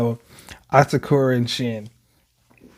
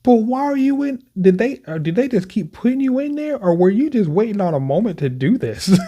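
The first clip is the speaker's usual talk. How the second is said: laughing disbelief; 9 semitones higher, 3 dB louder than usual. Real, not acted. Gamer laughs at surprising prisoner.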